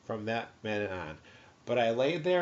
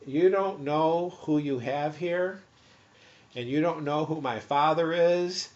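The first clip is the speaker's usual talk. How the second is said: retold self-important warning; 3 semitones higher, 3 dB louder than usual. Patient warning guards about who he is, emphatic. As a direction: spell it out to them, deliberately. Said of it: "I said".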